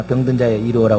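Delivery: lightly voiced junk dealer hawking in a singsong; junk dealer's call. Pastor mimics a junk dealer's cry as a joke. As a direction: call it out like a street junk collector, half-hearted. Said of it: "고물상에서나".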